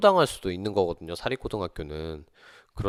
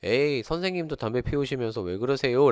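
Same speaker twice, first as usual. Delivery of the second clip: higher, teasing student voice; playful protest; 5 semitones higher, 3 dB louder than usual. Retold or imitated. Mischievous students teasing the teacher about smoking, playful protest. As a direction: imitate a cheeky pupil talking back. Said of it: "장난기 있는 친구들이".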